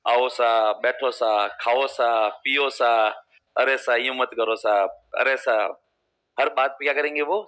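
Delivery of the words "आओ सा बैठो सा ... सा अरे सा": Jodhpur Marwari politeness. Retold or imitated. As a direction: coax each line like a humble Jodhpur host. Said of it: "उसमें हर जगह में सा लगता है".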